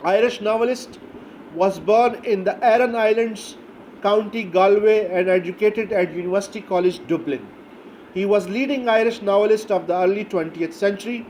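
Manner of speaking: reading out English notes very slowly, word by word; slow dictation. Shown as a demonstration. Teacher dictating the author's notes to students, very slow. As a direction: dictate it so students can write it down.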